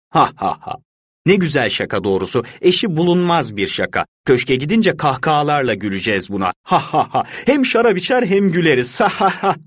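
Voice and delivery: high, cracked laughter of a walled-in man; pitiful laughing voice. A narrator's reading. Fortunato laughing from inside the wall, high and pitiful. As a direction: laugh it out high, half mad. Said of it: "insanı acındıran bir ses duyuldu".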